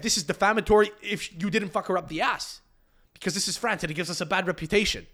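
high, loud pompous proclamation; mock official statement. Host pretending to be Nice's spokesman: loud mock pronouncement. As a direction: declare it like an offended spokesman. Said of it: "I would have said".

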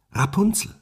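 high rising call up the tower. Acted. The prince calls up to the tower, high rising call. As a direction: call her name upward, hopeful. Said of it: "kam und rief".

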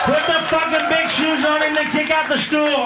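high-pitched rabble-rousing holler; mob-style demand. Acted. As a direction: whip the crowd up in mock fury. Mock lynch-mob demand building.

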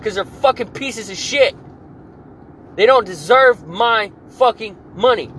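high, loud furious ranting. Real, not acted. Ranting to his viewers about people living on government assistance, high loud fury. Furious rant against welfare recipients.

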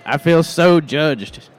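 slow, drawn-out mock hurt; mock wounded. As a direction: overplay the hurt feelings. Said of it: "repeated line".

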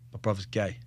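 quietly breaking the news; hushed my brother's gay said low and soft; low, soft telling. Retold or imitated. Telling his mate in the car, quiet confiding. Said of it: "I went".

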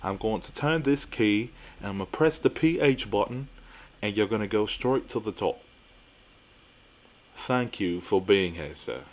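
put-on amateur English accent drifting toward Australian; measured, lightly faked English accent. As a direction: give the doorman a slightly off English accent. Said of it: "my British accent or English accent sounds Australian".

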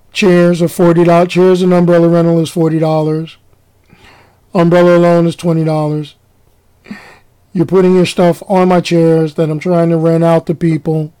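bored low monotone of a worn-out lifeguard. Retold or imitated. Tired lifeguard lectures lady about chair rules, monotone. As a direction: drone it out like you've given up. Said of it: "he was going on in this monotone".

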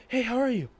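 friendly acquaintance rushing up, hailing her brightly; cheery guy's greeting. Retold or imitated.

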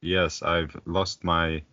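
slow, soft and lifeless; monotone voice. Pretend. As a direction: drain every bit of life from it. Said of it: "very monotone voice".

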